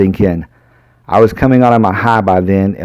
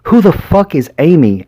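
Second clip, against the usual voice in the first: screamed; 8 semitones higher than usual. A narrator's reading. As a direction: yell it and slam the desk. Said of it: "I screamed".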